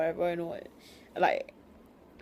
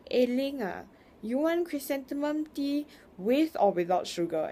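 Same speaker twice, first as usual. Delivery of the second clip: higher-pitched mom voice offering tea; imitating mom; 7 semitones higher than usual. Mom offering her aunt tea, mock high-pitched and fussy. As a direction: play the fussy auntie host, pitched up. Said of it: "she was like".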